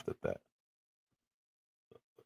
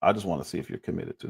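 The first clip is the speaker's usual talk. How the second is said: quoting the other dude; 6 semitones lower, 9 dB quieter, faster than usual. Retold or imitated. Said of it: "The other dude's supposed to be saying".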